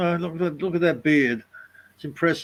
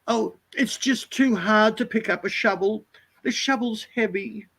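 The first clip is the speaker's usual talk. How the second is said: mock whiny backpacker; 5 semitones higher, 4 dB quieter than usual. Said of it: "And they do their hair and their makeup".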